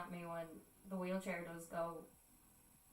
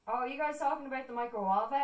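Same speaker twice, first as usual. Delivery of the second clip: louder, higher, quick imitation of a newcomer; chirpy interest; 4 semitones higher, 6 dB louder, faster than usual. Friend walking in on microwave talk, chirpy interest. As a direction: butt in eagerly.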